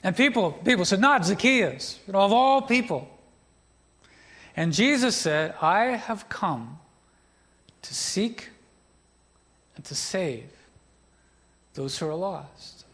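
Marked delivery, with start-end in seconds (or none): 1.0-3.1 scornful crowd. Retold or imitated. Crowd scorns Jesus' choice. 5.6-12.8 solemn, tender. Acted. Jesus' solemn reply to crowd.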